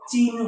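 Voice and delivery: চিহ্ন said with n before h, "chin-ho"; demonstrated pronunciation. Shown as a demonstration. Teacher showing students the pronunciation, চিহ্ন as chin-ho. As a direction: sound out চিহ্ন as chin, then ho. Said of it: "এটার উচ্চারণ কি হবে বলো তো".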